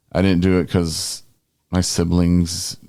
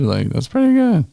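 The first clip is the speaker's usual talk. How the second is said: impressed; 8 semitones higher than usual. Retold or imitated. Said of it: "I was like".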